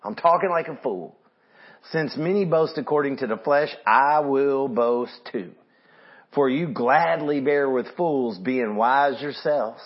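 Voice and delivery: sarcastic. Retold or imitated. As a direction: stretch out the mock concessions with mild sarcasm. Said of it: "Can you hear the sarcasm?".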